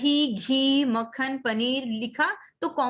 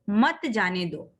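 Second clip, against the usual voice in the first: मत जाने दो as its own slow, lower phrase; मत जाने दो, measured and falling; set off by pause; 4 semitones lower, slower than usual. Shown as a demonstration. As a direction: begin afresh on मत, slowly. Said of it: "फिर हमें थोड़ा सा रुकना है".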